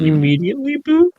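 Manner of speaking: can't believe what he just heard; surprised. Real, not acted. Incredulous reply to soccer claim.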